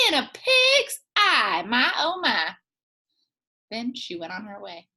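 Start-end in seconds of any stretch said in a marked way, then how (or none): 0.1-2.5 put-on high, loud scoffing old woman; scoffing granny. Granny brushing off the snake, high and scoffing. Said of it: "and said".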